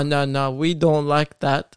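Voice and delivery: badly faked French accent, slowing down; a half-hearted go at a French accent; mock French refusal in a poor accent. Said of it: "That's the worst accent I've ever heard".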